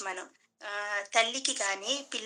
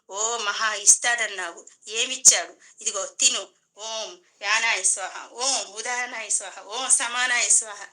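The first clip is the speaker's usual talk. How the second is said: loud, slow, bitter mantras; angry offering; 4 dB louder than usual. Acted. Priest angrily offering food to Shiva, loud and slow. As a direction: snap the offering prayers out in resentment. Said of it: "కోపంగా వచ్చేస్తున్నాయి ఈయనకి".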